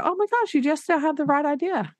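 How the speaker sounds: high, bright burst of teacher praise; excited praise. Retold or imitated. Teacher praising a shy student's idea, high excited gush.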